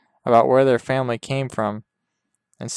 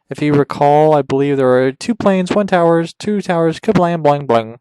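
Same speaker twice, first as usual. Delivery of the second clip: mock dramatic retelling; 3 semitones higher, 6 dB louder than usual. Hammed-up crash retelling.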